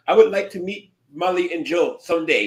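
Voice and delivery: lightly put-on Indian accent; a hint of an Indian accent. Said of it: "Excuse my Indian, uh, my Indian accent".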